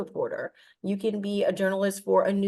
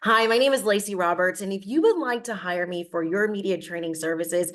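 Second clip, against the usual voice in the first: news anchor voice. Shown as a demonstration. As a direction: announce it like the evening news. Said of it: "we'll use your news anchor voice".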